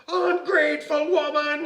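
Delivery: loud, high leprechaun fury; hammed-up temper outburst; angry growl. A narrator's reading. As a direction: growl it as a red-faced little man. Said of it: "he growled".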